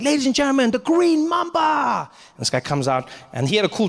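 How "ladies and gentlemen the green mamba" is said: showman announcer. Retold or imitated. Host introducing the mamba, high shouted announcer voice. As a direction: roar out the act name. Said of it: "Deng Basan is like".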